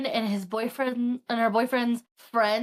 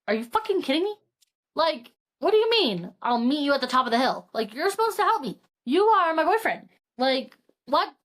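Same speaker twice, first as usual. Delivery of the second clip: mock outrage; 2 semitones higher than usual. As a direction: play the outraged girlfriend, not quite for real. Retold fight with boyfriend.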